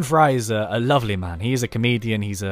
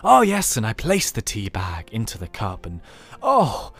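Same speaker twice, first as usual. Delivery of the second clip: mock dramatic narrator; slower than usual. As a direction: ham up a lush storybook reading, stretching each image. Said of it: "He's not gonna be talking like that".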